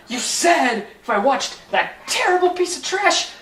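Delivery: normal talking voice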